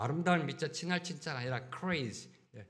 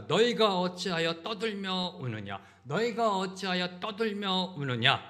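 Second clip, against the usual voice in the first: raised, emphatic reproach quoted from scripture; preacher voicing a mild scolding; stern rebuke; 3 semitones higher, 4 dB louder than usual. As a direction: reprove them in a higher, firmer voice. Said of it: "책망하시는 겁니다".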